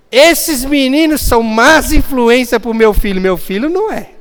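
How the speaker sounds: indignant parent. Retold or imitated. Parent blaming other kids.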